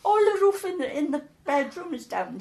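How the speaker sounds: high, loud complaint easing off; indignant wail, dropping towards the end; retold outrage. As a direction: act out an aggrieved neighbour reporting damage.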